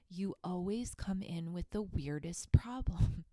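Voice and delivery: hushed, breathy whisper of the doctor's line; whispered doctor quote. Retold or imitated. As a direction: whisper it like the doctor letting you in on a secret. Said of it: "will look at me and go".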